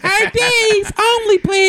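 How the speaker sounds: slow, high doorman voice; mock bouncer. Friends acting out the club door, slow high bouncer. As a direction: draw it out like a bored bouncer.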